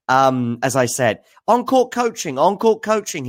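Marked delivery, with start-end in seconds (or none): 1.5-3.3 much higher, insistent mock complaint; mock-repeated complaint. Medvedev complaining to umpire, high repeated mock whine. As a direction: chant it high like a fed-up player. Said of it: "he would repeat".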